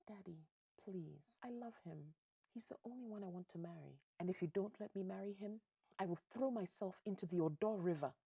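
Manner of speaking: acted desperate young sweetheart; pleading daughter. Daughter begs her father dramatically.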